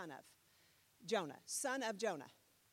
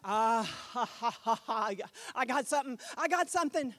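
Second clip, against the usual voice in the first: excited discovery; 6 dB louder than usual. Retold or imitated. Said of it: "it's like".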